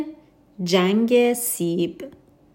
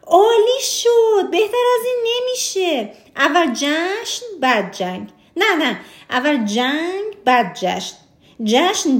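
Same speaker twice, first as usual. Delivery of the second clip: delighted king; 4 semitones higher than usual. Acted. The king rejoices at William's plan, then can't decide, high hammed-up glee. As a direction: squeal with delight, then dither between choices.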